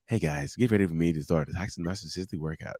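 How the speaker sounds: put-on comic video voice, kept soft; funny fake voice. Shown as a demonstration. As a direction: lightly do a joking influencer intro voice. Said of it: "That's how I talk being funny".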